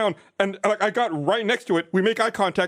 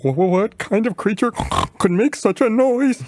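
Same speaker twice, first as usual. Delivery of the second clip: louder, stammering fright at the howl; stammering scared boar; 4 dB louder than usual. Acted. Youngest boar frightened by the wolf's howl, stammering. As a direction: stutter out the fear.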